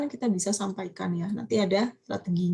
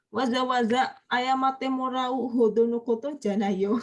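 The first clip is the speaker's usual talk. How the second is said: slow model reading; 2 semitones higher than usual. Shown as a demonstration. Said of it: "ini juga agak panjang ya".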